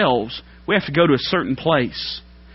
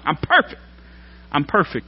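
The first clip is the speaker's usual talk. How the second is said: mock smug boast. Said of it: "That's what he was implying".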